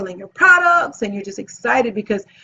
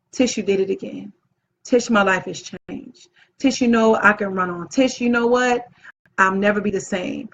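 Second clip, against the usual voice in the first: heartfelt retold thanks; 2 semitones lower than usual. Attendee thanking the host as the event closes, heartfelt.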